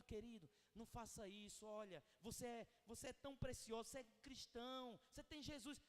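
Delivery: gentle, caring correction; affectionate. Shown as a demonstration. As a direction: coax a brother tenderly away from the wrong. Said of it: "a forma carinhosa com que você tá tratando". (carinhoso e acolhedor)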